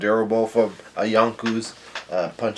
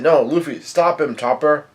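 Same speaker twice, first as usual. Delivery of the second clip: higher, urgent mock call; pitched-up imitation of a yell; Nami's retold yell; 4 semitones higher than usual. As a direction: act out calling a friend to stop. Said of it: "Nami yells out".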